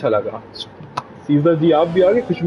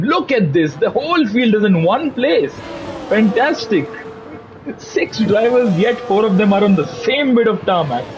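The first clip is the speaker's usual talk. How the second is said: higher-pitched, excited race commentary; live play-by-play; 6 semitones higher than usual. Real, not acted. Commentator marvelling at the whole field in one place, excited play-by-play. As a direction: call the close field with excitement.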